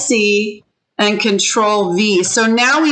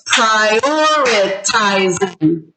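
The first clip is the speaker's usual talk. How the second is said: "prioritizing" very slowly, split into pri-or-i-ti-zing; syllable by syllable; much slower than usual. Shown as a demonstration. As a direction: separate every syllable of "prioritizing". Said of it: "how many syllables was that".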